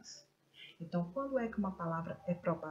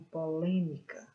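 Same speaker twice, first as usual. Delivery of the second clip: polêmica with LÊ a little louder; stress on LÊ; 4 dB louder than usual. Shown as a demonstration. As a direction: lean on the middle LÊ of polêmica. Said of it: "pronuncio a sílaba com mais força". (ênfase na sílaba LÊ de polêmica)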